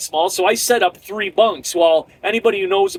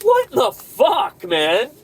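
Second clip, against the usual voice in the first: fed-up shout; 4 semitones higher, slower than usual. Pretend. Trucker fed up with the job, shouting. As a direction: blurt it out, fed up. Venting at dispatch about the mess.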